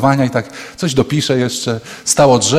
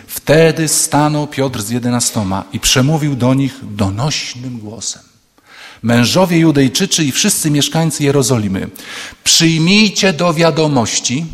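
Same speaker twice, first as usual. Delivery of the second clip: solemn reading. Shown as a demonstration. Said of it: "I tu jest".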